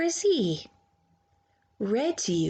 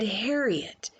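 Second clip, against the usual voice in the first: stern mother. Acted. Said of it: "so instead she said".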